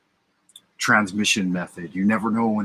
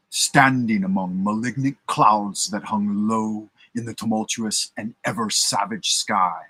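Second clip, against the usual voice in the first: grand dramatic storyteller narration; theatrical voice. Shown as a demonstration. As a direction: read it like a dramatic radio host. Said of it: "See if I can get into a theatrical voice for this".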